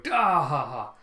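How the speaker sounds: loud, acted villain laugh; mock booming laugh of a winning side; gloating "da ha ha" laugh, put on; celebrating laugh. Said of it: "Kaido's force are celebrating".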